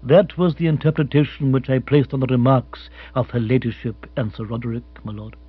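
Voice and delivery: unruffled, measured formality; Jeeves, formal butler. Acted. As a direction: report smoothly and deferentially.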